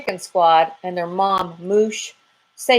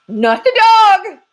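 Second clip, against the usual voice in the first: much higher, louder, slow panicked yell; squirrel yelling; 10 dB louder, slower than usual. Acted. Squirrel panicking at the thought of the dog, yelling high and loud. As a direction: shriek it like a terrified squirrel. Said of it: "yelled the squirrel".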